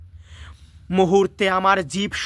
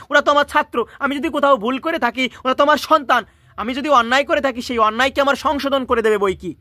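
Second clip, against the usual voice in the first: a touch of raised, earnest feeling; moved teacher; 2 semitones higher than usual. Acted. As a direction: plead with gentle emotion. Teacher's emotional defence.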